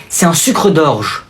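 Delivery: very slow, drawn-out sweet praise; syrupy praise. Acted. Aunt praising the sweet cousin, very slow. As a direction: stretch it out sugary.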